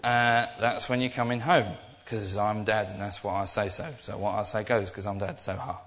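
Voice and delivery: a dad gloating over his own rule; mock bossy dad. Dad telling teenager the curfew, smug and laughing.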